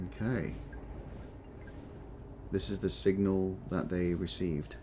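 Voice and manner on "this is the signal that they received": whistling s from a chipped tooth. Real, not acted. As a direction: let the s sounds whistle. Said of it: "Sorry for the whistling when I s-, do the S's".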